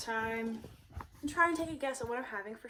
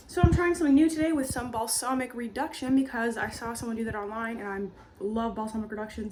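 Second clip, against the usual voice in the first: talking while out of breath; breathless from talking too long; 5 dB louder than usual. Real, not acted. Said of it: "I'm out of breath from talking".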